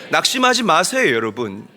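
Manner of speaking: loud, high fervent preaching; impassioned sermon climax. Real, not acted. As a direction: drive the point home to the congregation. Preaching exhortation.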